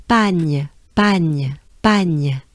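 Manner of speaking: "Pagne" said alone, repeated with falling tune; syllable demo. Shown as a demonstration. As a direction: model French "Pagne" as a separate piece. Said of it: "this sound is part of".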